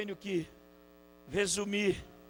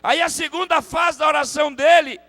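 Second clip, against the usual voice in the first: raised, high-pitched pulpit delivery; impassioned preaching; 8 semitones higher, 5 dB louder than usual. Real, not acted. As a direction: drive the teaching home, building to a louder finish.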